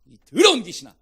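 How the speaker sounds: loud, forceful rebuke to a demon; explosive, commanding shout; scolding command. Shown as a demonstration. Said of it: "타이르지 말고 막 혼을 내야 돼".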